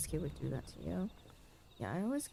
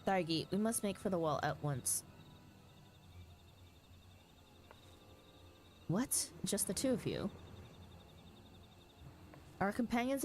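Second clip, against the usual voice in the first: urgent fantasy dialogue; 3 semitones higher than usual. Acted. Streamer voicing battle news in the cutscene, lightly urgent commanders. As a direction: sound the alarm like a knight at war. Voices game characters aloud.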